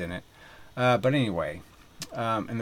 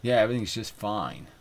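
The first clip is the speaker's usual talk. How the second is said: mocking smug agreement; 3 dB louder than usual. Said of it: "you sit there and say".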